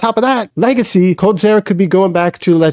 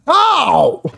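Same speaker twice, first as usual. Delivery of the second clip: disbelief; 9 semitones higher, slower than usual. Real, not acted. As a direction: ask it in open disbelief. Disbelief at team surviving.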